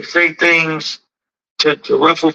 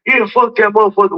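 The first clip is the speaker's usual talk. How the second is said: imitated tough talk, pitched up; taunt from afar; 5 semitones higher than usual. Shoe-stepper cursing back from way down there, mock defiant. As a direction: mimic someone mouthing off from down the street. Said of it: "you get way down there and you start talking".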